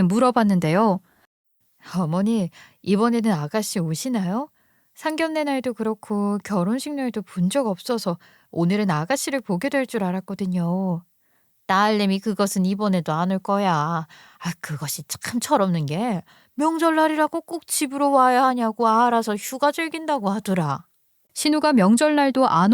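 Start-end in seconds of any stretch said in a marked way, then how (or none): 2.0-11.0 softly voiced daughter-in-law; lightly acted polite young wife. 11.7-20.9 lightly voiced complaining mother-in-law; a touch of a disapproving mother; grumbling mother-in-law.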